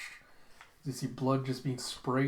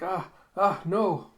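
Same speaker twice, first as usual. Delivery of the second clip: loud refusal; 6 semitones higher, 7 dB louder, slower than usual. Acted. Zapon refusing the swap.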